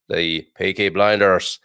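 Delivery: put-on lightly done slow Brummie accent; a hint of a Birmingham gangster accent. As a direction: say it slowly, Peaky Blinders Brummie style. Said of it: "I've been practicing my accents".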